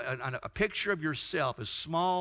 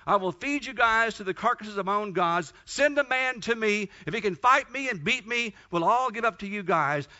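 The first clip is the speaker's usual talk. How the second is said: mock challenge, pitched up; retold taunt; 3 semitones higher than usual. Goliath taunting the army to send a man, retold taunt. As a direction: call out a retold giant's challenge. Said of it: "who taunts us every day and says".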